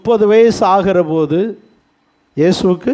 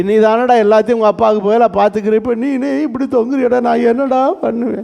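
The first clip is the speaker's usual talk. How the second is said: mother's lament; 5 semitones higher than usual. Retold or imitated. Mother laments son on cross.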